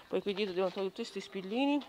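hiccups breaking the phrase; speaking through hiccups. Real, not acted. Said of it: "chiedo scusa il singhiozzo".

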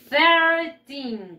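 "thirteen" drawn out from a strong TH; tongue between the teeth to start "thirteen". Shown as a demonstration. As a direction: model "thirteen" slowly with a clear TH. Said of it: "Con la lengua".

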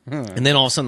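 ordinary talk

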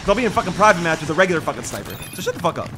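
loud, high heated yelling; angry trash talk. Real, not acted. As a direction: shout down the taunting opponent. Trash-talking opponent angrily.

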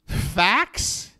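"Fax messages?" stretched very slowly, rising; incredulous. Real, not acted. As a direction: spell out the disbelief. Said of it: "The fuck decade am I watching".

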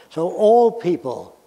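slow, deliberate words; over enunciating. Shown as a demonstration. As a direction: spell it out slowly. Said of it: "let me say this slowly".

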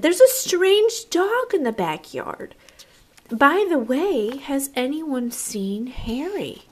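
a family member calling out about a stray dog; puzzled family member. Acted. Family member spots a strange dog.

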